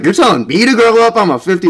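high, loud mock-indignant dad; imitating dad. Dad calling her out after hearing the podcast, high and loud. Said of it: "He's like".

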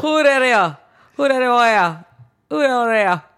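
high, loud Southern holler; hammed-up Southern accent; mock Southern accent. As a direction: echo an exaggerated country Southern call. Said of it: "it would definitely be a Southern accent".

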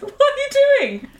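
high, laughing protest; half-shriek through giggles; laughing mock scold. Scolding mum in retold scene.

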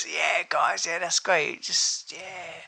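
loose, easy-going mock approval; relaxed producer. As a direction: lightly imitate a laid-back producer.

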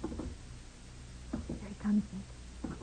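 tense whisper in the dark; scared whisper. Acted. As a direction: barely breathe it to Nick. Hiding as someone descends stairs.

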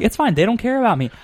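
high, loud self-pity; mock hurt. Son watching his team lose, mock self-pitying. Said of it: "I'm like".

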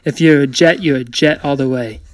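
shaky-attempt New York accent, half laughing. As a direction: try a playful, unconvincing New York accent. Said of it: "my attempt at a New York accent".

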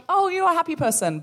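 high, delighted mock remark; imitating happy onlookers. Happy passers-by to the woman with starfish arms, high and delighted. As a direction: pitch it up, pleased for them. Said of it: "they were so happy".

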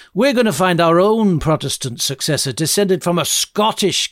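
indignant, hammed-up Scottish accent; defiant mock-Scottish protest, punching the key words; terrible Scottish accent. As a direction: play an affronted Scottish parliament in a bad Scots accent. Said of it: "for my terrible Scottish accent".

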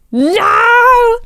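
high, loud cry of disbelief; a retold gasp of shock at the news. Shocked at pregnancy test result.

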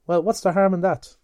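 a touch of Mulligan's surprised bluster; Buck Mulligan voiced. Mulligan, caught out, protesting to Stephen, lightly voiced.

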